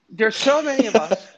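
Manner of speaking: put-on a light North London accent. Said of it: "doing an North London accent".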